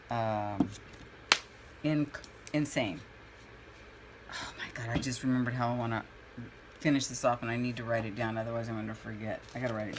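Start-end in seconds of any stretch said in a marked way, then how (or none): 4.3-5.0 breathless whispered gasp of remembering; sudden whisper. Real, not acted. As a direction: whisper it as if it just hit you. Sudden memory while painting.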